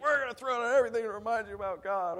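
loud, high mock bluster; mocking proclamation. Preacher ridicules the revolutionary's boast, mocking proclamation. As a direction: parody a puffed-up revolutionary's threat.

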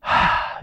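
soft, breath-only sigh; wordless, tender exhale; melting sigh. Retold or imitated. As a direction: let out a sigh as the heart melts. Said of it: "you know, your heart just melts".

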